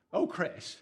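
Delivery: loud mock reproach of a wife; exasperated blame, played for laughs; acted blaming. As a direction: pretend to pin it on your wife, loudly. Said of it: "I blame her".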